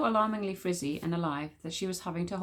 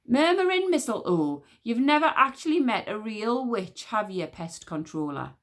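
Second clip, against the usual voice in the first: irritated; 4 semitones higher, 3 dB louder than usual. Acted. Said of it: "in great irritation".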